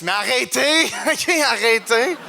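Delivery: high, laughing stop-it; laughing plea. Real, not acted. Comedian begging the laughing crowd to stop, high and giggling. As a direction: beg them to stop while cracking up.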